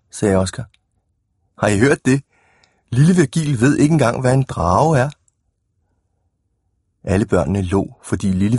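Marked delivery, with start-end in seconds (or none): 1.6-5.1 taunting. Acted. Oscar taunting Virgil before the class.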